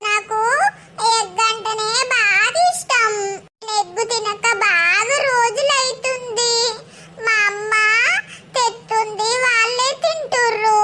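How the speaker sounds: tearful and halting, half sobbing. Acted. Girl telling a kind neighbour through tears. Neglected girl tells her troubles.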